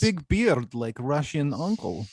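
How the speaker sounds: teasing mock Russian English; Russian accent. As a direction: play at a stereotypical Russian accent. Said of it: "He sounds Russian".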